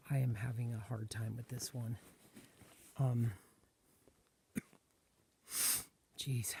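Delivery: sniffling with allergies. Real, not acted. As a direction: talk through a sniffly, stuffed nose. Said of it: "sorry about all the sniffling and coughing".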